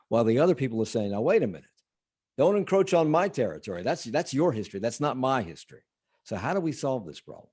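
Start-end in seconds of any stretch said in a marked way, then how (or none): 1.1-5.8 higher-pitched imitation of indignant objectors; mock objection. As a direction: voice the other side pushing back. Voicing objectors in a retold debate.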